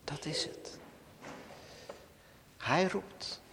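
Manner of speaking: soft whispered conclusion. Acted. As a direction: breathe it to the congregation. Sermon hush after loud lines.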